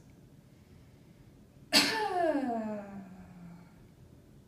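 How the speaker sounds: cough, then let the voice fall all the way down; cough into a glide. Shown as a demonstration. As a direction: demo of cough and pitch glide. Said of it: "So it's gonna sound like this".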